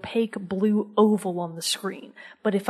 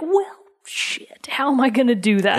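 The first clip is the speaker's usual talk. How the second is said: exasperated; 3 semitones higher, 4 dB louder than usual. Retold or imitated. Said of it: "And you're like".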